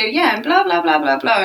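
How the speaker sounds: high, loud mock blabbing; blabbing idiot. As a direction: imitate someone babbling loudly, oblivious. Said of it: "one of those idiots that would just go".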